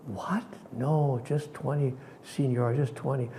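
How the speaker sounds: soft and slow, a stunned vendor; hushed disbelief. Retold or imitated. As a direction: quietly refuse the extra money. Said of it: "She looked at me, she said".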